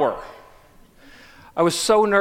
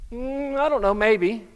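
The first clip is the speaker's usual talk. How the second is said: put-on noncommittal girl; 5 semitones higher than usual. Girl asked to dance.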